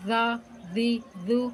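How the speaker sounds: "زا، زی، زو" with tongue tip at the front teeth; "زا، زی، زو" gently, no whistle or hardness; soft lisped Z. Shown as a demonstration. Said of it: "بغیر سیٹی کی اور سختی کی آواز". ("زا، زی، زو" نرمی سے، بغیر سیٹی کے)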